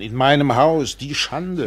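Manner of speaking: loud, rising mock outrage of an old matron; imitating a scandalised yell. The captain imitates Frau Fink yelling about the shame. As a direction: throw the outrage at the whole house. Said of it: "hat die alte Bestie geschrien".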